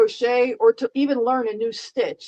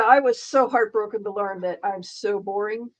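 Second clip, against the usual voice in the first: sarcastic; 3 semitones lower than usual. Pretend. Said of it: "there's extreme sarcasm".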